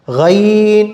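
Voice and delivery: "गैन" as throaty ghayn, drawn out in two sounds; pronunciation demo. Shown as a demonstration. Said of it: "गैन simple है". ("गैन" हलक से खींचकर)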